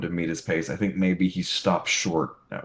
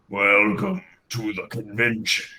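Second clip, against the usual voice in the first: a lightly voiced costumed villain; smooth menacing host, barely shifted; deep villain voice. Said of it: "you hear a deep voice going".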